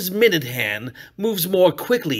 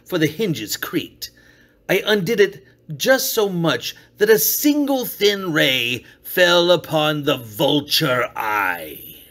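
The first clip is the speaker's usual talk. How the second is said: ordinary delivery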